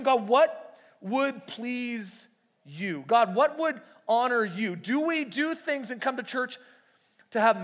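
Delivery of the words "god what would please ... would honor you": very slow, drawn-out questioning; slow searching prayer. Shown as a demonstration. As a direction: let each word hang as you ask God. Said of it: "You ever ask that question".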